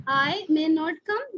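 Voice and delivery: very slow, word by word example; slow dictation. Shown as a demonstration. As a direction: dictate the example sentence slowly. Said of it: "देखो". (धीरे-धीरे उदाहरण बोलते हुए)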